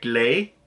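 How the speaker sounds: "lay" drawn out with a rising English glide. Shown as a demonstration. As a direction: stretch "lay" upward, with the extra glide. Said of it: "but without the extra, like".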